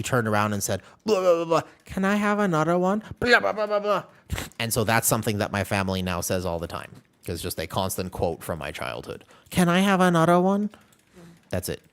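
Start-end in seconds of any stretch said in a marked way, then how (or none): 1.0-4.0 high, strained child voice with a put-on Asian accent; accidental Asian accent. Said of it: "what do you mean Asian accent". 9.5-10.7 put-on higher childlike voice with a slight Asian accent; the kid asking for more, in a light Asian accent; accidental Asian accent. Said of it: "what do you mean Asian accent".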